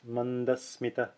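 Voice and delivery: "Mandasmita" with a short ee in "smi"; Sanskrit word. Shown as a demonstration. Teacher demonstrating the Sanskrit word. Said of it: "Again, it's".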